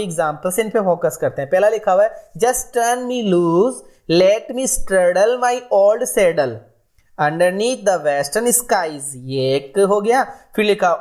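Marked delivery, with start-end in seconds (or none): 2.4-9.1 slow, drawn-out recitation of verse; poem reading. Acted. Teacher slowly recites a cowboy poem to the class. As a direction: read each line of the poem slowly, savouring it. Reads poem lines aloud.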